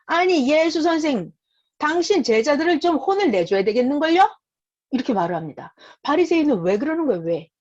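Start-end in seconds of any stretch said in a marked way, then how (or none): 0.1-4.3 higher-pitched, mildly scolding objector; acted reproach, pitched up; indignant Pharisee. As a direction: play a critic taking a teacher to task. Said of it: "바리새인들이 말합니다".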